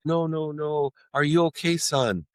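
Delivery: a hint of a mother brushing it aside; concerned mom voice. Mother brushing off the money to check on her son, lightly voiced.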